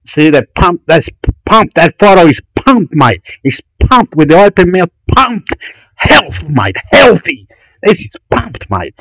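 punchy, excited bursts on each word; pumped-up hype. Real, not acted. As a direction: hype the photo up, pitch jumping. Hyping up a pumped-up photo.

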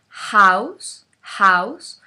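"house" with a breathy h like a Spanish j; aspirated h. Shown as a demonstration. Teacher showing the English h to Spanish speakers. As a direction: breathe out hard at the start of "house". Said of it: "como una J de Juan".

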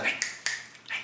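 tiny mock-polite hey, very soft; passive-aggressive hail. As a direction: imitate a roommate quietly nagging for attention. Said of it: "that shit passive aggressive people do".

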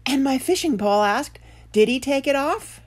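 high, loud, alarmed fisherman; panting fisherman. A narrator's reading. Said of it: "panting fisherman said with a cough".

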